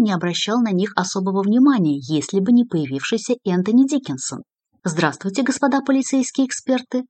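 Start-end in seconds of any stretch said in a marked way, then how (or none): 4.8-7.0 put-on mildly raised, drunken announcement; unnaturally loud greeting. A narrator's reading. Drunk secretary addresses two police experts at their table, unnaturally loud. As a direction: greet them a little too loudly. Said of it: "неестественно громко сказал Диккенсон".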